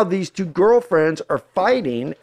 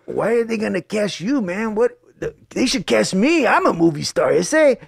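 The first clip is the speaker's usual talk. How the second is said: lightly voiced cholo challenge, pitched up; mock-indignant cholo, higher than usual; imitating cholo; 6 semitones higher than usual. Locked-up kids challenging the auditioning actor, mock cholo protest. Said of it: "And they're like".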